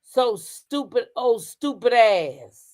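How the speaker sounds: slow quote with drawn-out words; reading her words out. Retold or imitated. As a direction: read the insults out slowly, word by word. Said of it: "She said".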